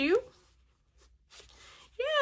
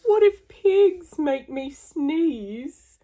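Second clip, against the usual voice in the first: slow worried question; slower than usual. Acted. Gerald's slow fearful question.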